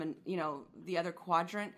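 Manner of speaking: ordinary talk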